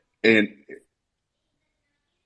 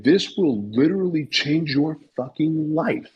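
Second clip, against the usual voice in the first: urgent exhortation; 6 semitones higher than usual. Real, not acted. Urging listeners to act.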